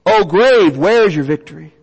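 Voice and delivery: mild mocking jab at the grave; a light, understated jeer; taunting the grave. Shown as a demonstration. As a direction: lean into the challenge a little, teasing. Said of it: "Paul here is basically taunting death".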